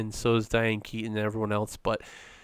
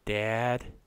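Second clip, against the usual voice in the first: flat wooden delivery; 3 dB quieter than usual. Retold or imitated. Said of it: "That's how she says".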